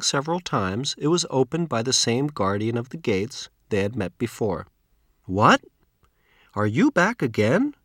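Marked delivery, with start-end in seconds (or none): 5.3-7.7 the gatekeeper, caught off guard, calls out; surprised. A narrator's reading. Gate guardian greets returning travelers in surprise. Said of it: "he asked in surprise".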